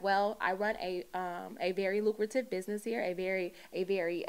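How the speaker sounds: lightly voiced white girl voice; hint of a polite white girl voice. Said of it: "I put on my white girl voice".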